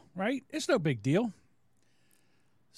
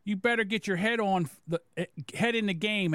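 slightly raised mocking read; a hint of a put-on scolding voice; Eric; 5 semitones higher than usual. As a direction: imitate his scolding, lightly voiced. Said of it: "let me get my Eric voice on".

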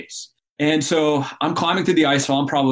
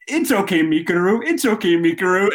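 higher, teasing "it's okay" to a gasping climber; mock consoling Sherpa; 7 semitones higher than usual. Sherpa teammates teasing the breathless climber, mock soothing. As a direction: pat him down gently, mocking. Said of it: "they're like".

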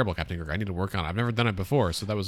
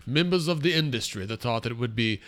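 pompous funny voice. Acted. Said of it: "What is this voice you're doing?".

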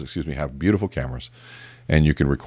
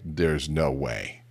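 slow, softer mock disbelief; retold disbelief; 3 semitones lower, 5 dB quieter, much slower than usual. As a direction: draw it out, quietly unconvinced. Retold disbelieving thought to himself.

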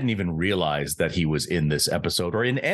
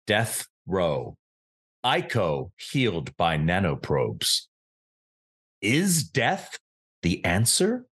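haiku recital; slower than usual. Pretend. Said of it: "here's our poetry appetizer synopsis".

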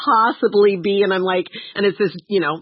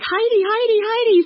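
high, repeated name-call; acted-out high-pitched summons; retold calling out. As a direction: call your friend back, high and insistent. Calling the friend over, retold.

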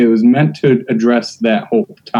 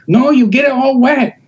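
high-pitched put-on Asian accent; exaggerated Asian-accented complaint; mock Asian accent; 13 semitones higher than usual. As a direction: imitate an old bit's Asian accent, pitched way up. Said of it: "I still did an Asian accent".

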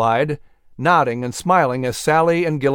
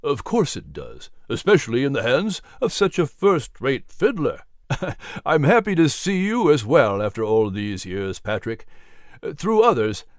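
a hint of an older gentleman, friendly; lightly voiced genial Gilliman. Gilliman compliments Patrick and introduces Jefferson, lightly voiced and genial. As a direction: speak as a genial old family friend.

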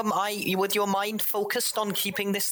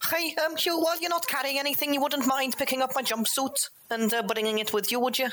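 higher, brisk polite ask; polite request; 5 semitones higher than usual. Acted. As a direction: sweetly ask a favour.

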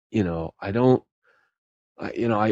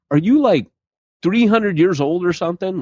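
retold incredulity; 10 semitones higher than usual. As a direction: react as if baffled by someone absurdly old-fashioned. Retells his incredulous reaction to them.

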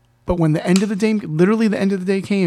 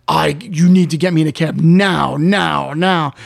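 retold insistent order, punching each repeat; mildly acted impatient command; urgent demand; 3 semitones lower, slower than usual. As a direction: demand it firmly, no room for argument.

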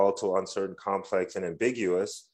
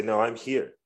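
firm, owning the room; confident claim to space; 2 semitones higher than usual. Shown as a demonstration. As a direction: say it like you belong here. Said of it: "intentionally we should say".

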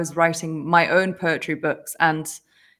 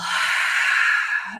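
imitated exhale.

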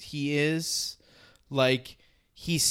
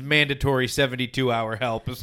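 laughing; 5 dB louder, faster than usual. Real, not acted. Laughing at the joke.

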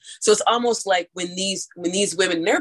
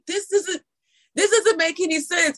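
retold disbelief; 9 semitones higher than usual. Retelling her own baffled reaction.

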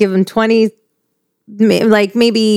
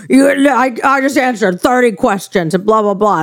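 imitated exasperated New Yorker, pitched up a little; thick New York accent; 4 semitones higher than usual. Wife mimics husband who answered thirty questions, thick New York accent. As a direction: grumble like a fed-up Long Island husband. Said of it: "his accent was so thick".

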